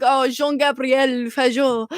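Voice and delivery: put-on slow French-accented name. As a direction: imitate a French dad introducing a name. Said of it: "French accent".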